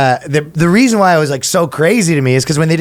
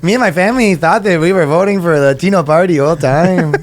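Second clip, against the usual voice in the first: jokey put-on Latino accent. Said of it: "let's do a Latino accent".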